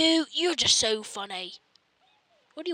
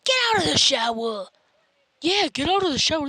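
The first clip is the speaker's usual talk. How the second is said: fast, loud, higher yell to get out of the shower; fast shout; 5 semitones higher, 7 dB louder, faster than usual. Acted. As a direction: bark it through the door. Shouting at someone.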